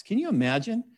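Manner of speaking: breathy aside whisper; a whispered aside to the congregation, in disbelief. Real, not acted. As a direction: lean in and whisper it.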